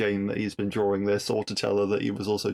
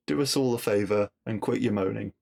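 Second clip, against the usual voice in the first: put-on lightly touched northern English accent; a hint of Manchester in the voice. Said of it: "in a northern accent".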